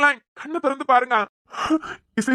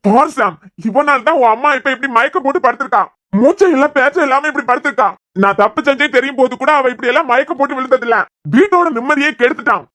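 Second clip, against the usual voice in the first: angry accusation; 3 dB louder than usual. Acted. Father blaming son for mother's fainting.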